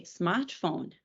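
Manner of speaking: "smartphone" said the Brazilian Portuguese way; Brazilian-accented "smartphone". Shown as a demonstration. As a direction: say "smartphone" as Brazilians pronounce the loanword. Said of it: "We have to say".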